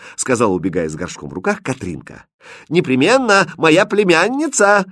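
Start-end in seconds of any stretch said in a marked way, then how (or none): 2.7-4.9 high, loud, drawn-out call; hearty farewell call; calling after her. A narrator's reading. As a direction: shout it after someone running away. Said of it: "крикнул ей вдогонку Шут".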